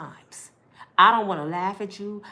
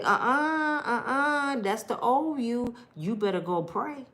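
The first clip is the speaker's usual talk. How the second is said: inner scolding; 5 semitones higher than usual. Retold or imitated. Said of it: "something inside me like".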